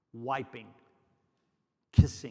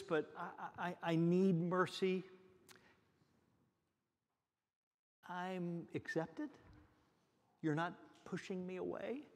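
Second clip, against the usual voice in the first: imagined heartfelt plea; 3 semitones higher than usual. Pretend. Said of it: "She's likely feeling".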